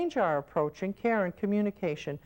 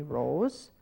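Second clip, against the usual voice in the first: correcting caregiver; 4 semitones higher than usual. Shown as a demonstration. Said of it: "Now you could say to me".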